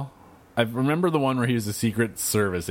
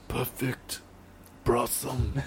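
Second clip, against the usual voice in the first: his usual bit; 4 semitones higher, 6 dB quieter, much slower than usual. Pretend. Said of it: "Rossi's gonna do his thing again".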